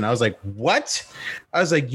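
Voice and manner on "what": rising incredulous "what"; higher, questioning retort. Retold or imitated. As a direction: act out taken-aback disbelief. Acted incredulous reply to boy.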